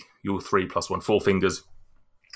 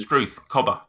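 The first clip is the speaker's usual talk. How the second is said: a little higher, hammed-up Australian; Australian accent; 4 semitones higher than usual. Shown as a demonstration. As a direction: throw in a quick Australian catchphrase. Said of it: "it's an Australian accent".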